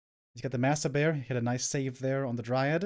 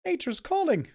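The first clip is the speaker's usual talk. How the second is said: unit voice line; 14 semitones higher than usual. Pretend. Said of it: "do the sound effects for all the units".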